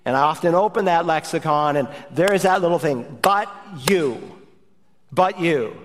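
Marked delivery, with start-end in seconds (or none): 3.2-5.8 BUT and YOU set apart by a pause; deliberate, weighted "but YOU"; emphatic. Shown as a demonstration. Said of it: "It's emphatic".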